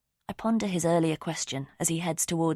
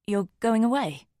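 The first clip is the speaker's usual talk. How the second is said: high, loud sudden surprise; surprised; 6 semitones higher, 4 dB louder than usual. A narrator's reading. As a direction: caught off guard. Sudden surprise at dad's case.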